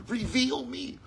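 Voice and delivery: a hint of God pleading, slowed; slow, yearning plea as God; lightly voiced divine plea, drawn out. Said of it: "he's pleading through you".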